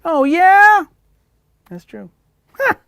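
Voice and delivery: high, loud squeaky puppet. Acted. Coretta voice replies.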